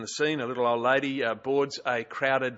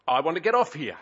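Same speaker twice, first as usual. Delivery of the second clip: sudden raised call of stop; old lady calling out; 3 semitones higher, 5 dB louder than usual. Retold or imitated. Old lady calls to the bus driver, a raised stop. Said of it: "she says to the bus driver".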